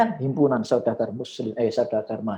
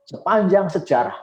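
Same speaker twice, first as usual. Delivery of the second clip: rousing speech to students, raised voice; formal speech; 4 semitones higher, 6 dB louder than usual. Shown as a demonstration. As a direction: address the crowd like a rally speaker. Demo of a speech opening.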